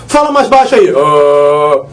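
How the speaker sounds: low-pitched joke for "mais baixo"; deep low "Ah". Shown as a demonstration. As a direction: drop into a very low growl on "Ah". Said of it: "baixo é grave".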